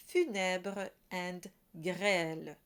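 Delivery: funèbre and grêle said slowly with an open è; open è vowel. Shown as a demonstration. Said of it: "The E sound is easy to spot".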